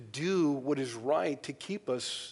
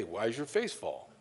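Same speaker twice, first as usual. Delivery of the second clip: lower, softer, put-on voice mocking "fall"; mock question; 4 semitones lower, 5 dB quieter than usual. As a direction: ham up the clumsy question in an odd voice. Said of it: "don't say".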